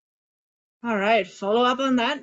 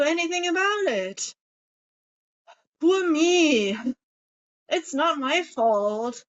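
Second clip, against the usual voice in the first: higher, hammed-up pity party with laughs; mock self-pity; 4 semitones higher than usual. Shown as a demonstration. Coach acting out a pity party for the group, mock self-pity. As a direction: wallow playfully, half laughing at yourself. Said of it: "celebrate a pity party".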